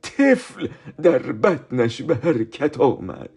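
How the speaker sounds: slow, solemn Bible reading; scripture reading. Acted. Teacher reading Luke to the children, slow and solemn. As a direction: read the verse slowly and reverently.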